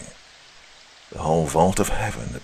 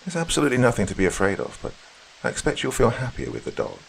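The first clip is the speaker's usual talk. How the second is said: higher-pitched, lightly played reassuring employer; lightly voiced mistress; 6 semitones higher, faster than usual. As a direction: reassure the governess as her mistress, lightly acted.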